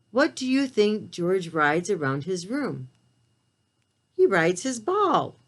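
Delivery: gentle, expressive storybook reading; picture book read-aloud; reading to children. A narrator's reading. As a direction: read it aloud to little listeners.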